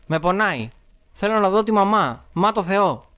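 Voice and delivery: put-on high-pitched child's desperate plea; acted distress. Hurt child in script begs. (απεγνωσμένα, σαν παιδί)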